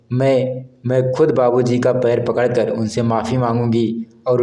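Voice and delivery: lightly voiced tearful plea, halting on माँ, मैं; a hint of sobbing, begging forgiveness; crying. Sapna begs her mother and husband, understated tearful voice. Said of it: "ज़ोर-ज़ोर से रोने लगी".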